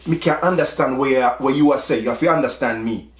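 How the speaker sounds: lightly voiced Jamaican patois, quick retort; a hint of the father's Jamaican patois. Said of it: "with his patois".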